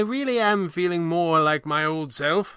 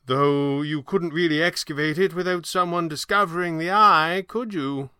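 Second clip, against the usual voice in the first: gentle, higher-voiced old magician; gently questioning, higher voice; 7 semitones higher than usual. A narrator's reading. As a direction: let them down gently. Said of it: "Falcone said gently".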